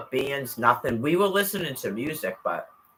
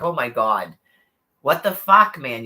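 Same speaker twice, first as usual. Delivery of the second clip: mock shock; 5 dB louder than usual. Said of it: "I was like".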